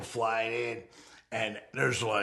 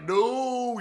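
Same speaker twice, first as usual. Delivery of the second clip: followers' cry; 13 semitones higher, 5 dB louder than usual. Retold or imitated. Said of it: "they're like".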